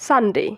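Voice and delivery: "সানডে" with a falling, short "de"; common pronunciation. Shown as a demonstration. Teacher showing how we normally say it, everyday pronunciation. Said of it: "আমরা normally উচ্চারণ করি সানডে".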